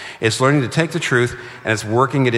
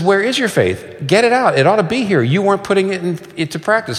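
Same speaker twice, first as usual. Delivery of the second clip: raised, pressing rebuke; stern rebuke; 9 semitones higher than usual. Retold or imitated. Jesus rebuking the frightened disciples, raised and stern. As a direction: press them hard for their faith.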